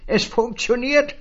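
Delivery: high, loud call after him; a gleeful high call. Acted. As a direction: call it out as you run off. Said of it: "rief ihm das Männchen zu".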